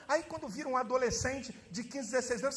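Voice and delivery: usual speaking voice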